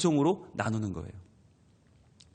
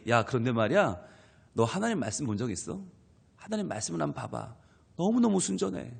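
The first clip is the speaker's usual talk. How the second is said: softer and lower, a quiet friendly invitation; gentle believer aside; 3 semitones lower, 5 dB quieter than usual. Acted. Believer softly turning the talk to God's word, lowered and quiet. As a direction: lean in and softly urge a friend. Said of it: "얘기하다가 갑자기".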